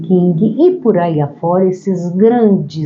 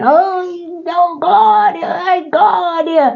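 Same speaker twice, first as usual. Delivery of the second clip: put-on very high, showy wailing shout, long drawn-out "ai"; 12 semitones higher than usual. Explaining how people in the synagogue prayed to be seen, mock loud showy praying. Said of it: "Aquela gritaria para mostrar para o outro".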